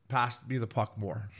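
slow, lightly put-on Russian accent. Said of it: "in a Russian accent".

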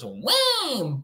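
high, sharp mocking "wham"; mocking noise. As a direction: blurt it like a taunting sound effect. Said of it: "that's my mocking noise".

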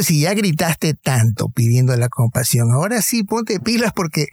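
eager push, rising high and insistent; urgent coaxing. Retold or imitated. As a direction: urge him to get up and run now. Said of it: "Como diciendo".

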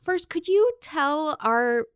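high, eager hello on a call; bright phone greeting. Acted. Host greeting professor on call, high and eager.

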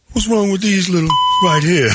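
high-pitched imitation of a baffled fan; mock incredulous. Retold fan's incredulous question.

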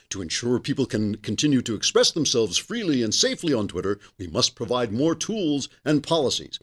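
hammed-up corporate statement; pompous funny voice. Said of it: "in that funny voice because it's so pompous".

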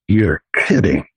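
lightly voiced boss, floored by the news; shocked boss. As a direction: drop the voice low in disbelief. Boss hears about sale.

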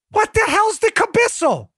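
high-pitched baffled retort; mock bafflement. Host plays someone asked for the cabissel, mock baffled. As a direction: demand an explanation in hammed-up confusion. Acted baffled reply to request.

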